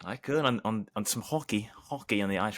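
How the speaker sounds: half-hearted attempt at a Canadian accent; lightly put-on Canadian accent; bad Canadian accent. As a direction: try a Canadian accent and miss. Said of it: "Try to do a Canadian accent".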